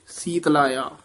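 ਸੀਤ ਲਾਇਆ run together quickly as one word; joined pronunciation. Shown as a demonstration. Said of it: "ਵੱਖਰਾ ਨਹੀਂ ਕਹਿਣਾ, ਇਕੱਠਾ ਹੀ ਬੋਲਣਾ ਛੇਤੀ".

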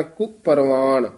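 ਕੁ ਪਰਵਾਣ said as one joined word; short ਕੁ leading straight into ਪਰਵਾਣ; joined word demo. Shown as a demonstration. Teacher showing the pronunciation, ਕੁ run into ਪਰਵਾਣ. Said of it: "ਕੁ ਤੋਂ ਚੱਕ ਕੇ".

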